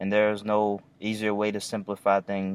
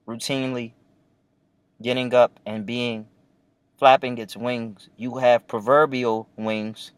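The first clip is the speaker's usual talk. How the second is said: poetic robot voice; 3 semitones higher than usual. Pretend. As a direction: recite like a solemn poetic robot. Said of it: "Why am I talking like this, like a poetic robot?".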